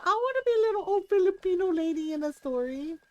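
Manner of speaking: retold eager wish. Friend's delighted reaction, retold.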